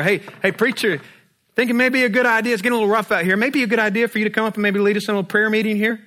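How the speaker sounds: hammed-up sea captain nudging the preacher; sailor captain waking Jonah. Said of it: "Knocks on the door".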